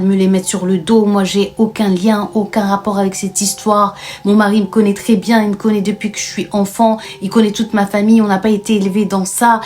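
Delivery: retold rival shouting down the wife; indignant accusation. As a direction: hammer her with outraged denial. Samah counter-accuses in dispute.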